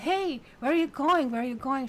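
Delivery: high, loud call after someone leaving. Acted. The Fool calling after the vanishing woman, loud and high.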